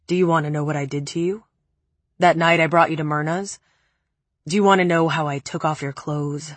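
a hint of a low, cold man. Preppy's cruel confession.

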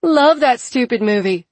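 high, loud manic gush; going crazy. A narrator's reading. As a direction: blurt it out a bit unhinged. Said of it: "demonstrating what her going crazy would sound like".

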